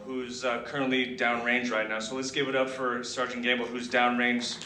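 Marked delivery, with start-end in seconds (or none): 2.0-4.6 loud, rising hype call to the crowd; rallying shout. Real, not acted. Retiree calling for applause for troops downrange, shouting. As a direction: get the whole room cheering.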